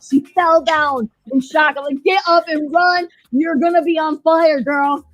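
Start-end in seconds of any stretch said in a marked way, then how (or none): 2.0-5.0 raised, high urging call; mock urgent warning. Host warning the old woman to flee flames, mock urgent shout. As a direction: holler a playful warning to someone in danger.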